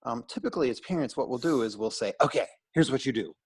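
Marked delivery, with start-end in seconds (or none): 2.2-3.3 put-on gentle, patient therapist talking to a child; kid therapy voice. Shown as a demonstration. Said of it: "that was my kid therapy voice".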